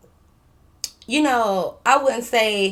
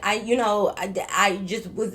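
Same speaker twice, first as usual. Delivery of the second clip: stuttering. Retold or imitated. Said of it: "I'm stuttering".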